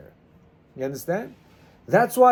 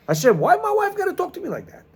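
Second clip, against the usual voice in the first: pleading cry to God; 11 semitones higher, faster than usual. Retold or imitated. Imitated husband crying out to God.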